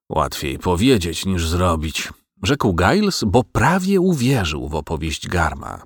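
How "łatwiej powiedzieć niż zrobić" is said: slow, slightly lowered grumble; slow reluctant reply. Acted. Farmer answers his wife's advice, slow reluctant reply. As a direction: weigh the words reluctantly, dragging them out.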